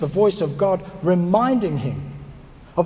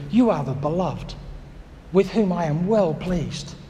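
tender blessing; 3 semitones lower than usual. Pretend. God's words, slow and tender.

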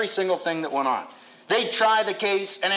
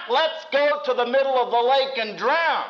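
mock version; 6 semitones higher than usual.

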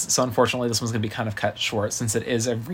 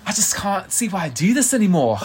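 mock weary singer; 7 semitones higher, 3 dB louder than usual. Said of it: "being like".

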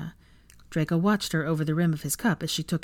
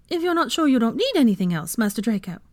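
high house-elf voice, fretting; anxious elf; 6 semitones higher, 4 dB louder than usual. Acted. Elf checking master needs nothing, anxious. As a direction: squeak it with anxious politeness.

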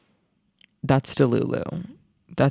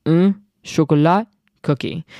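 French accent. Shown as a demonstration. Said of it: "Can I flex on you".

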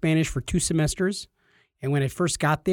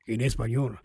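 put-on low, soft Spanish-accented aside; 6 semitones lower, 6 dB quieter than usual. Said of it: "I would say it in, in Spanish".

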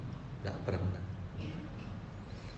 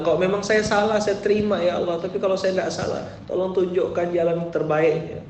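higher-pitched earnest plea to God; pleading prayer; 8 semitones higher than usual. Pretend. Preacher voicing a listener praying on the prayer mat, higher earnest plea. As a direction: sincerely beg for guidance. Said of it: "Antum bilang".

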